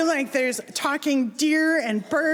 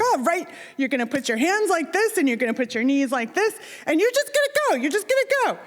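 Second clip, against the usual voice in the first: higher-pitched hyped-up coaching, imitated; hyped dad; 5 semitones higher, faster than usual. Dad coaching a nervous child to dive, hyped. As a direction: imitate an eager dad giving diving instructions. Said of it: "he's all, you know, hyped".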